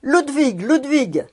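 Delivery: put-on high, loud call of the boy's name; shouting from the window. A narrator's reading. Fritz calling the boy Ludwig from the window, a loud high shout. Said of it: "il se mit à crier".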